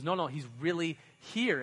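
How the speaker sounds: insisting. Retold or imitated. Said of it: "she goes".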